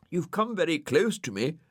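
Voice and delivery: the snail uneasy at the dog looming over him; nervous. A narrator's reading. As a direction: edge away anxiously as you say it. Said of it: "said Brian nervously".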